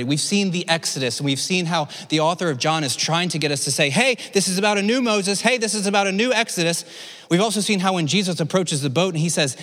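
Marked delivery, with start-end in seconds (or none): 3.9-6.8 higher, insistent nudge to the listeners; animated "hey, look" delivery; eager prompting. Acted. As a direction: get their attention, excitedly point it out. Voicing author's eager prompt.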